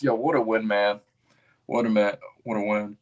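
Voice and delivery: yelling about the win; loud excited. Real, not acted. Streamer yelling over the Knicks win. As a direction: celebrate it full volume. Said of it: "I hurt your guys' eardrums".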